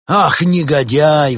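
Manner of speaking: loud, high, drawn-out indignation; scandalized antiquarian; outraged exclamation. A narrator's reading. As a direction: cry out slowly in outrage. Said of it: "воскликнул антиквар".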